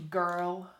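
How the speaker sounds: put-on GIRL as one syllable, standard English vowel; GIRL pronounced "gurl"; careful standard pronunciation. Shown as a demonstration. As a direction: say GIRL without the Scottish accent. Contrasts standard girl with Scottish.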